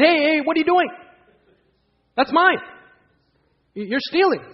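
high, loud hammed-up shock; indignant protest. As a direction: call out the thief in alarm. Professor protests the theft.

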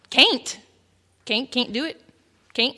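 "Can't" as "caint"; "Can't" with a long Texan AY; Texan mispronunciation. Shown as a demonstration. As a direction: stretch "Can't" to rhyme with "paint". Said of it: "those mispronunciations".

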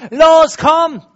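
high, loud cheer with a laugh; cheering angels. Retold or imitated. Interpreter voicing angels cheering the game, excited laughing shout. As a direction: urge the team on, laughing. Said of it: "Sie schauen zu bei dem Spiel und sagen".

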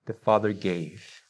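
"the Father gave" slow, every word weighted; emphasis on gave. Shown as a demonstration. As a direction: lean slowly into "the Father gave". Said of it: "Emphasis on".

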